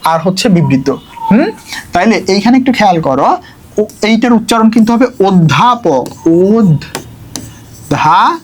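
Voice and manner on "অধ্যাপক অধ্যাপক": অধ্যাপক said with the first vowel close, like ও, as ওধ্যাপক; pronunciation demo. Shown as a demonstration. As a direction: read অধ্যাপক slowly, first sound rounded toward ও. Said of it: "এরকম হয় উচ্চারণটা".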